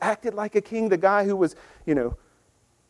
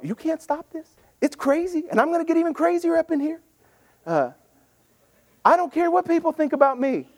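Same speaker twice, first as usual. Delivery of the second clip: higher, fired-up voicing of David; raised, exuberant defiance, not caring what anyone thinks; excited defiance; 7 semitones higher than usual. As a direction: belt it out like a man who won't be stopped.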